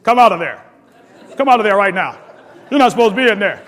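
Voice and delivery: mock stern order to an intruder; guard's warning. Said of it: "somebody would come and say".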